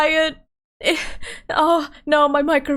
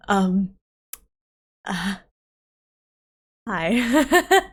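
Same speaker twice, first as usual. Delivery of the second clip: deep mommy voice; 6 semitones lower than usual. Pretend. Streamer greeting chat in her new mommy voice. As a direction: greet chat like a calm mother. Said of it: "nice, deep, mommy voice".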